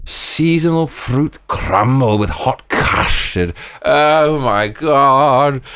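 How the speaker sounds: slow, high, savouring every word; overjoyed. Real, not acted. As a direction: relish the dish, building to a loud swoon. Overjoyed at a British dessert.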